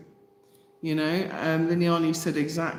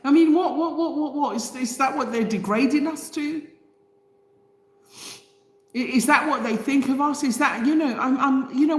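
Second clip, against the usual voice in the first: indignant; 5 semitones higher than usual. Real, not acted. Outraged rant at apathy.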